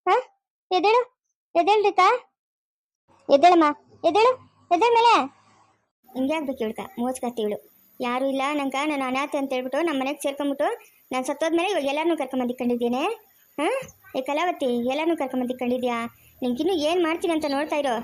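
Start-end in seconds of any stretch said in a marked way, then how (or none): 6.1-17.9 low, much softer ghostly voice; ghost grandmother. Acted. Dead grandmother's ghost cursing the stepmother, low soft voice. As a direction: murmur darkly like a vengeful spirit.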